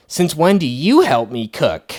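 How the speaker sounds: slow, snippy mock jab; mock passive-aggressive dig. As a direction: needle her with a slow sarcastic question. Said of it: "here she's like".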